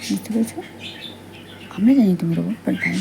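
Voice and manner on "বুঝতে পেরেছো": soft secret whisper; hushed whisper. Acted. Reminds the robot in a hushed whisper. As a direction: keep it hushed and private.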